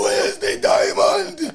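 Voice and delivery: high, slowed imitation; imitating the movie line; high slow mock movie cry. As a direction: draw it out up high. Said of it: "repeating movie line".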